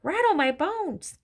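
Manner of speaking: high, slow spooky wail; spooky parrot voice. A narrator's reading. Parrot shows off for the children, imitating a spooky voice. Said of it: "wonderful imitation of a spooky voice".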